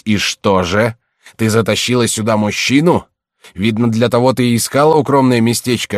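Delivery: громкий, нарастающий гнев, к концу выше; отчитай дочь, распаляясь всё сильнее; гневная отповедь отца. Acted. (разгневанный отец громко бранит дочь)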